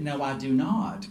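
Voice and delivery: lightly imitated slow Southern drawl; Southern accent. Manager answering the waitress, mild Southern accent. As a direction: answer with a hint of Gomer Pyle's Southern twang. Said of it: "I spoke with a really high voice with a southern accent".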